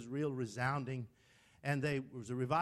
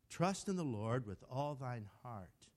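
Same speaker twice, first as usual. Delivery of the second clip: slow, deliberate recitation of a verse; slow measured quoting; 3 semitones lower than usual. Shown as a demonstration. Preacher quotes verses to Jerry his own way, slow and measured. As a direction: recite it slowly, stretching the words. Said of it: "I have to quote them this way".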